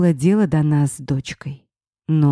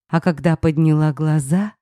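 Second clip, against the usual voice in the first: ordinary delivery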